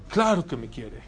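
put-on low-pitched first reply of a child; a hint of a tearful kid, pitched low; imitated crying child. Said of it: "pero llorando".

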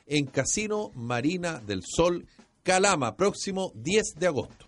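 lively promo announcer; radio ad read. Acted. Host promotes the casino comedy show, lively promo read. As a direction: hype the casino show for the audience.

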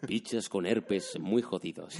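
deep announcer voice. Retold or imitated. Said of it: "escuchabas la voz esa".

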